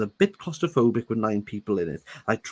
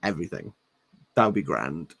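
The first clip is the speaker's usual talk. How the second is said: lightly voiced Stephanie; 6 semitones lower, faster than usual. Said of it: "Stephanie was like".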